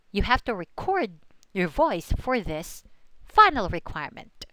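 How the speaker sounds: "record" said as the verb re-CORD inside a sentence; stress on second syllable. Shown as a demonstration. Teacher gives an example sentence, "record" stressed on its last syllable. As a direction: put the weight on CORD in "record". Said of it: "when it's the verb".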